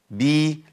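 بي with a bright i; ب with kasra. Shown as a demonstration. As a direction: stress بي with a clear i. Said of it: "المحركة بكسر".

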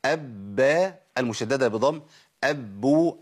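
أب held then released into با and بو; doubled ب demo. Shown as a demonstration. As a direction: hold the lips closed on أب before the vowel. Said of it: "المشددة بفتح".

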